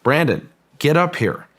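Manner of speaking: a half-mock yell summoning Brandon uphill; retold shout. Physicist calls down to Brandon from the mesa, mock shouting. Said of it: "start shouting down".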